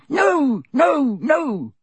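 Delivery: squeaking elf. A narrator's reading. Dobby refuses Harry's wish, high loud squeak. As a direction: squeak in alarm. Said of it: "squeaked Dobby".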